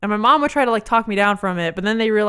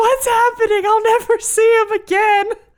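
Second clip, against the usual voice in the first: put-on very high, despairing, inconsolable sobbing; 13 semitones higher, 4 dB louder than usual. Retelling her past self while everyone searched for her brother, acting out inconsolable crying. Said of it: "I'm just there like inconsolable".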